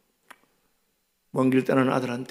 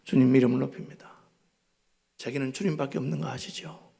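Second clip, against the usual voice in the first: tender prayer; 4 dB quieter than usual. Retold or imitated. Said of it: "밤새도록".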